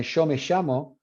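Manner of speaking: yo me llamo with yo and llamo said with sh; Argentine sh. Retold or imitated. Friend imitating the Argentine sh sound. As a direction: mimic Argentine sho me shamo. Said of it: "he went to Argentina".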